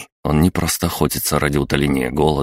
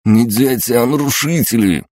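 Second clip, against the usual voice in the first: spat through teeth; 8 semitones higher, 4 dB louder than usual. A narrator's reading. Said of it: "процедил Сидоровец".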